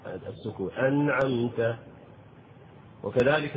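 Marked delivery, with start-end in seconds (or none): 0.7-1.8 أنعمت with the nun clearly silent; clear sukun. Shown as a demonstration. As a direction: show the sakin nun in أنعمت distinctly. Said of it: "فيجب إظهار السكون".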